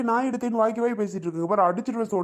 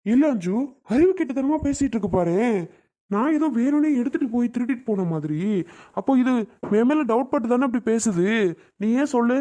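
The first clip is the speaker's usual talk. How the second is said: louder and higher, heated; angry retort; 3 semitones higher, 3 dB louder than usual. Acted. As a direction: snap back hard at the accusation. Brother furious at sister's accusation. (கோபத்துடன் உரத்த குரலில் பதிலடி)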